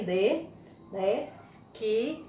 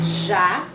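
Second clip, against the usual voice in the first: JÁ said alone and loud; isolated, emphatic já; stressed syllable; 3 semitones lower, 5 dB louder than usual. Shown as a demonstration. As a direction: punch out já as the strong syllable. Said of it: "Mais forte, a sílaba tônica".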